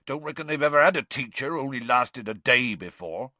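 mildly thick-tongued character voice; thick, drunken. A narrator's reading. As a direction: reckon it aloud through drink. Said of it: "he said thickly".

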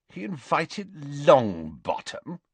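high, slow disbelieving question; incredulous. A narrator's reading. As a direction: draw it out in disbelief. Malfoy sits up in disbelief.

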